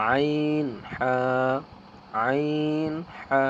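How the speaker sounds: আইন squeezed from the middle of the throat; Arabic letter demo. Shown as a demonstration. Teacher demonstrating throat letters, articulated. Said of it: "কণ্ঠনালীর মধ্যখান হতে উচ্চারিত হয়".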